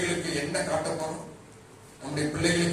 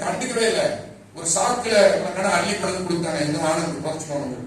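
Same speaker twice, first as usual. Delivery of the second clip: loud rebuke; 2 semitones higher, 4 dB louder than usual. Real, not acted. Preacher rebukes divisiveness.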